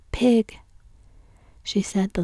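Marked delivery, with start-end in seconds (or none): 0.1-0.6 a sharp whispered outburst, higher and louder; sudden violent outburst. Acted. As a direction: spit the word out in a sudden fury. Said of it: "with such sudden violence".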